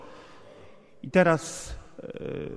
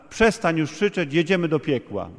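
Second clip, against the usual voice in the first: mildly raised, annoyed order; a touch of exasperation; retold irritated shout; 2 semitones higher, 3 dB louder than usual. Interpreter voicing the annoyed passenger, mild irritated shout. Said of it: "pełen zdenerwowania krzyknął".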